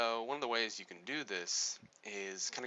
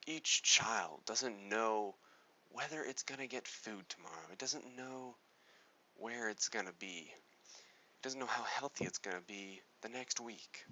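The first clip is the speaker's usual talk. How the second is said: somber appeal; 3 dB quieter than usual. Shown as a demonstration. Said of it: "for example".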